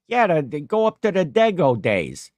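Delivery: put-on casual, eager urging in a light Italian accent. Cousin recommends a local festival, light Italian accent. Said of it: "a real, like, you know, Italian accent".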